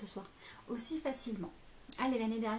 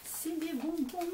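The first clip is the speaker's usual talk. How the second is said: higher, slow, sing-song delivery of "C'est des bonbons."; 7 semitones higher, slower than usual. Real, not acted. Repeats it after a long pause.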